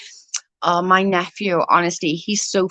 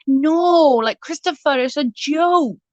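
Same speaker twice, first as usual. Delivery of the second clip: high laughing protest; 8 semitones higher, slower than usual. Retold or imitated. Laughing reply to her nephew.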